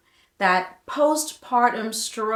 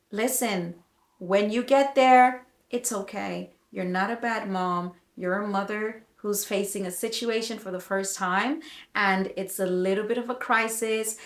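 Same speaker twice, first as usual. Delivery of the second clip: gentle reassurance. Real, not acted. Reassures struggling new mothers.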